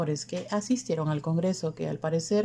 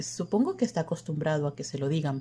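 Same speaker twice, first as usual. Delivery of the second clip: ordinary delivery, nothing marked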